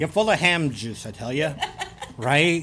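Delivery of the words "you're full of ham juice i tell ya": Fargo accent. Shown as a demonstration. Insulting co-host like a Fargo local, Fargo accent. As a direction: toss off a Fargo-accented jibe. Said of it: "That's how they talk in Fargo".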